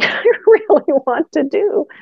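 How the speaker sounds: a real laugh breaking into the line; laughing through it. Real, not acted. Physio telling the podcast host, laughing wryly. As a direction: chuckle at how unappealing it sounds. Laughing at her own reluctance.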